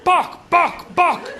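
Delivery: high, loud chanted yell; crowd yelling. Retold or imitated. Five fans chant for the pianist, high loud yelling. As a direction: bark the name over and over like a chant. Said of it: "all yelling".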